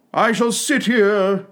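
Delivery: slow, drawn-out footman voice; unbothered drawl. A narrator's reading. Footman ignores Alice and plans to sit, slow and unbothered. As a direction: stretch each word out, unhurried. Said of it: "continued in the same tone".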